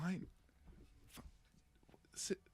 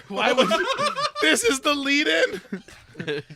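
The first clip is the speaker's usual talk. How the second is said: incredulous laughing outburst; laughing in disbelief; 11 semitones higher, 8 dB louder, slower than usual. Real, not acted.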